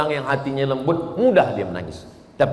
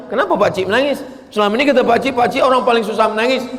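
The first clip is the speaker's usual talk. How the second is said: puzzled ustaz; 9 semitones higher, faster than usual. Retold or imitated. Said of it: "Ustaz kawan saya tanya".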